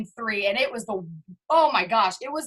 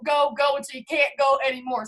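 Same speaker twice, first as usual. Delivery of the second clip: rallying shout. Real, not acted. Pumping up the team to go.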